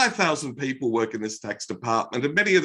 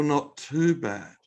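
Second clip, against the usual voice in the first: mock miserable; 2 semitones lower, slower than usual. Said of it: "What a bloody miserable answer".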